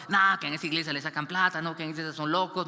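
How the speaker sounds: fast, scoffing gossip; quick sneering hearsay about the church; dismissive gossip. Retold or imitated. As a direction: rattle off the rumors mockingly. Mocking what people say about church.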